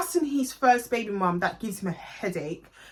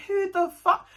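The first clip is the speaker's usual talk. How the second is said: shocked, furious snap of a question; retold angry yell; angry outburst; 8 semitones higher, slower than usual. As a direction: hit it high and sharp like you can't believe it. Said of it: "I got so angry at him".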